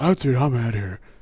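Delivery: angry, pissed-off voice, done way too deep. Retelling how an angry friend announced she was leaving, imitating an angry friend, voice too deep. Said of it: "She didn't sound like that, by the way".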